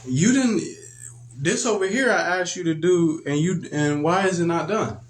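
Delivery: lightly voiced parent demanding answers; scolding parent. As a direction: parent finding the chore not done, mildly scolding. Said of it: "they be like".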